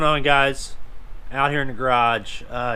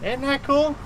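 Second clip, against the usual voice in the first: playful wonder; 11 semitones higher, slower than usual. Pretend. Showing off the trick to the child.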